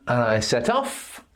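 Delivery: "set off" with the stress on OFF; stress second word. Shown as a demonstration. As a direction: lean on "off" in "set off". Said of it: "You stress the second word".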